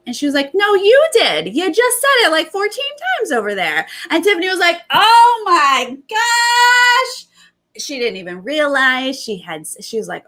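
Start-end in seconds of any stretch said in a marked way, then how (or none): 0.5-3.9 much higher, louder retold callout; mock indignant callout. Hannah calling Tiffany out, high and loud. 4.9-7.3 very high, slow, sung-out Oh my gosh; mock gasp of shock. Tiffany realizing she blew the secret, sung high.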